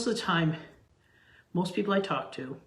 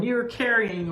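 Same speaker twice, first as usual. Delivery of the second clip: lightly acted game-time shout, higher; mock yelling; 5 semitones higher, 4 dB louder, slower than usual. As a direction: imitate a teammate calling out a foul. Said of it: "yelling at the other one".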